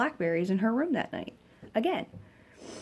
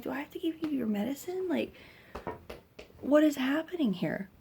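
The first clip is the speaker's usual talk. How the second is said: retold exasperated questions, pitched up; mildly exasperated mom, higher pitch; exasperated parent; 6 semitones higher than usual. Mother questioning her crying daughter about medicine, exasperated.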